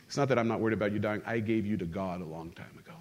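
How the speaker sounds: low, quick, understated reassurance; quietly matter-of-fact, voice dropped; mother's calm reply. Retold or imitated. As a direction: retell a mother's settled answer, softening at the end. Mother's calm answer retold in English.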